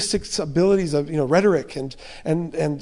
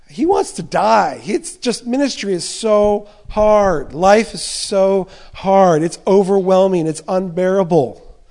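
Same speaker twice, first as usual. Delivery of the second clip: louder, slow, pleading anguish; anguished despair; 6 dB louder than usual. Acted. Preacher voicing a despairing Paul to the congregation, loud slow anguish. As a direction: let the weariness pour out, drawn out.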